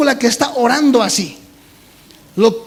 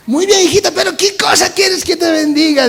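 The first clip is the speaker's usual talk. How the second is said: kindly God voice; 6 semitones higher than usual. Retold or imitated. God answering.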